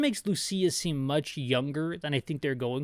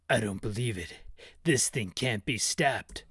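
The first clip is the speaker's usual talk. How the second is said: Barry voiced; 5 semitones lower than usual. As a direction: grumble it like a weary soldier. Voicing Barry in cutscene.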